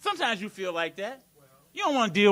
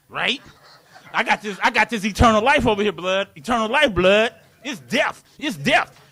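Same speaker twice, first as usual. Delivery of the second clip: street hustler; 3 dB louder than usual. Retold or imitated. The man sweet-talking his soul like a brother on the corner, lightly voiced. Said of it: "almost like a brother on the corner".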